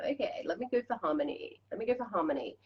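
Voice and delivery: softly spoken self-reassurance; quiet, tender words to yourself; soft and gentle. Acted. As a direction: settle yourself gently toward harmony. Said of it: "It's a softer, softer, more gentle feeling".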